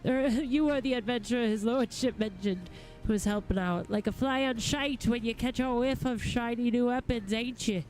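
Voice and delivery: lightly voiced rough-spoken, grumbling craftsman; a hint of salty grouchiness; cranky smith. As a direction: play a mildly irritable working smith. Reads a grumpy smith's dialogue.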